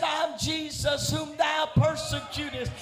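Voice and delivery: preaching at full force. Acted. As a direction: preach it out to the congregation.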